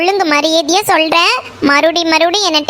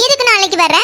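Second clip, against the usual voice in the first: high, fast repeated why why; agitated demand; 6 semitones higher, faster than usual. Acted. Meena alarmed the boy will come back tomorrow, high fast demand. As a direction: pounce on his words.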